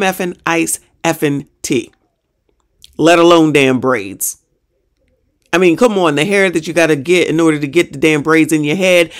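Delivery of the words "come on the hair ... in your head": ordinary delivery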